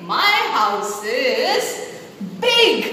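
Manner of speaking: "my house is" çok yavaş uzatılmış, "big" yüksek ve vurgulu; big stretched slowly. Shown as a demonstration. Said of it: "what I am depicting to my arms".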